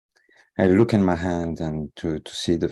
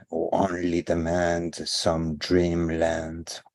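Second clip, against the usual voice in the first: measured poetry reading, leaning on the rhymes; poem recital; slower than usual. Acted. Poet reads own hand poem to livestream audience, measured recital. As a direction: recite it in steady, drawn-out phrases.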